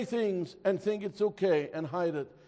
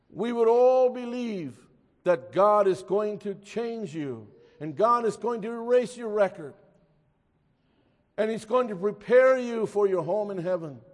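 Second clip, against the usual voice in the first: raised, emphatic preacher's assurance; weighty, stressed key words; earnest preaching; 4 semitones higher, 7 dB louder than usual. Real, not acted. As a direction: preach the promise with conviction.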